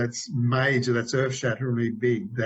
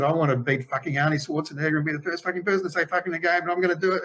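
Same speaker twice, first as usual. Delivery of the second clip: mild, hammed-up rant; retold ballistic rant; 5 semitones higher than usual. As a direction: imitate someone going ballistic, pitch climbing. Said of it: "because Eric went ballistic".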